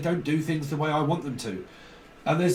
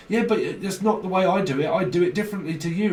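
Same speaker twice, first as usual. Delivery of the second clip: higher, louder, fast defensive snap; mock indignant retort; 5 semitones higher, 4 dB louder, faster than usual. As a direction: fire back like a stubborn worker. Acted quarrel over doing work.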